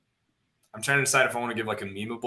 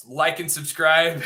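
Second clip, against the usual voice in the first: slow, drawn-out hype plea; lightly hyped streamer sign-off; 4 semitones higher, 5 dB louder, much slower than usual. Pretend. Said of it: "the streamer voice".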